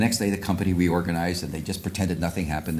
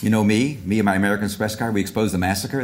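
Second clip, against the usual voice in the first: ad voice; 2 semitones higher, 4 dB louder than usual. Pretend. Parodying old credit card ads.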